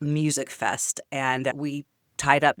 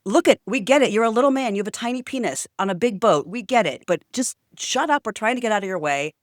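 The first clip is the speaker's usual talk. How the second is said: losing it, yelling; 6 semitones higher than usual. Retold or imitated. Retelling telling off the yelling boater, high angry shout. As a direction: finally snap at the little guy. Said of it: "a bit of a screaming match".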